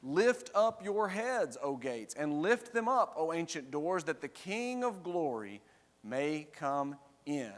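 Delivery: measured demand, lifted at the start and easing off; repeated demand. Acted. Company at the gates demands entrance of the sentries, proclaiming. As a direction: proclaim a formal demand for entry. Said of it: "the statement is demanded again".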